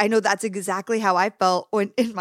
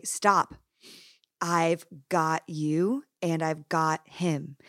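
gentle God voice; 3 semitones lower, 3 dB quieter than usual. Retold or imitated. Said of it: "I felt God say".

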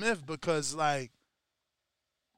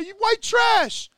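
higher, louder, slow hammed-up insult; mock shouted insult; 12 semitones higher, 7 dB louder, slower than usual. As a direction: spit it out slowly and loud. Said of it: "turned around and said".

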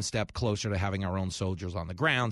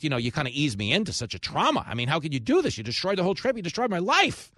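hammed-up aggrieved lecture; 2 semitones higher, 3 dB louder than usual. Cat owner scolding his brother for blunt news, mock aggrieved. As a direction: whine it out, building to outrage. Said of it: "He's like".

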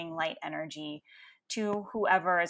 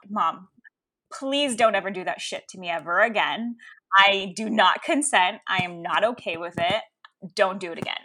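loud, emphatic plea to mom; retold firm refusal; 7 dB louder than usual. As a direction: lay down a boundary, mock-exasperated. Acted firm refusal to her mother.

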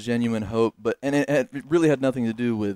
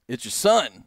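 a touch of cocky jerk, louder; 5 dB louder, slower than usual. Retold or imitated. Son calling his estranged dad, like a jerk. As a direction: announce yourself like a jerk. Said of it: "like a, like a jerk".

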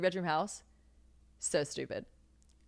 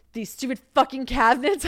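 higher, louder mock outburst; exasperated raised-voice gripe; fed-up rant; 7 semitones higher, 8 dB louder than usual. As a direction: vent about the cabinets like they wronged you. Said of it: "I'm like".

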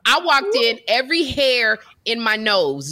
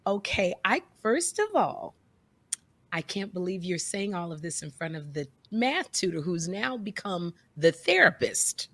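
whispered aside, much softer and lower; muttered aside; 5 semitones lower, 7 dB quieter than usual. Retold or imitated. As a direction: hush it under your breath, slowing at the end. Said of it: "I'm over here like".

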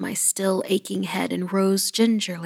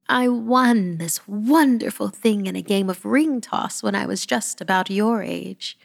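smiling granny; 3 semitones higher than usual. Acted. Granny telling the child about her prize, smiling. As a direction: smile through the memory. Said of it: "she smiled".

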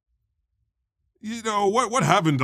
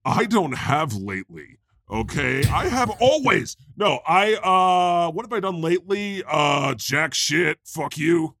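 God answering; 3 semitones higher than usual. Acted. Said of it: "how about you read it".

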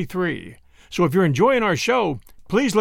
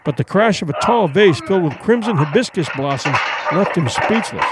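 story narration. A narrator's reading. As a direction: tell the fight like an audiobook narrator.

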